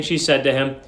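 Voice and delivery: ordinary delivery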